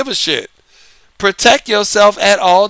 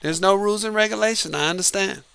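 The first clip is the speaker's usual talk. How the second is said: quiet acceptance; 9 dB quieter than usual. Retold or imitated. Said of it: "you're gonna say".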